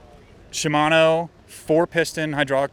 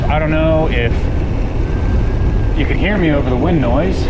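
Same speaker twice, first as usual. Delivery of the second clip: raised voice over rushing wind; shouting over wind; 3 semitones higher, 4 dB louder than usual. Real, not acted. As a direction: call out over the wind noise. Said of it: "In case you weren't able to hear me on the downhill section over the wind noise".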